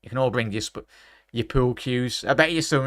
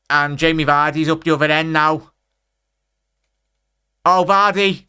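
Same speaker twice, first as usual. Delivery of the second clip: louder, higher, real shock at the miss; excited disbelief; 4 semitones higher, 6 dB louder than usual. Real, not acted. Streamer reacting live to chat, loud disbelief. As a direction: exclaim it like you can't believe the miss.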